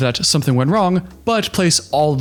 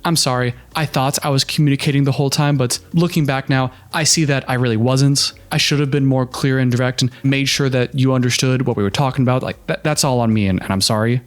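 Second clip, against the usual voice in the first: sincere apology. Shown as a demonstration. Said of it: "It'd be one thing if he said".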